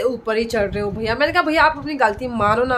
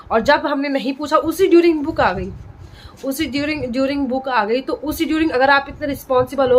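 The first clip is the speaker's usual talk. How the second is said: retold angry complaint. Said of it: "इतना गुस्सा आ गया था".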